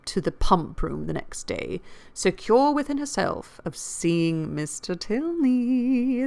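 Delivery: lively audiobook reading of a classic novel; expressive period-novel narration; story narration. A narrator's reading. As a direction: read the novel aloud with emphatic key words.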